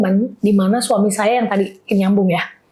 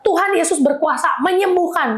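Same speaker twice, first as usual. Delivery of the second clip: raised-pitch proclamation, peaking on the last word; retold prayer shout; 5 semitones higher than usual. Wife proclaiming over her husband in the ER, mild retold shout. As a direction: declare each phrase as if crying out in prayer. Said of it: "Sambil teriak itu ya".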